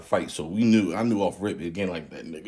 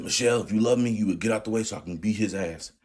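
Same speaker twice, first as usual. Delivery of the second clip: father's demand; 3 semitones higher, 3 dB louder than usual. Retold or imitated. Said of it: "He said".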